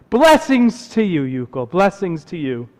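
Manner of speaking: lightly voiced rabbi's blessing; rabbi calling after. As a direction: call a blessing after him, falling away. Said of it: "the rabbi calls after Yukol".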